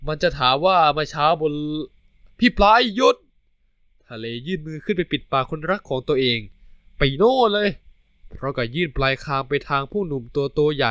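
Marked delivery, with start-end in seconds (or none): 2.4-3.1 much higher, louder stop command; loud high urgent cry to stop; yell to stop. Acted. Talay tries to stop him talking. 7.0-7.7 higher, louder shoo; loud high brush-off. Acted. Shoos his boyfriend away.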